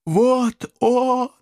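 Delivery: high, eager hunting shout; excited yell. Acted. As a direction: yell right in his ear. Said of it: "Прямо мне в ухо завопила".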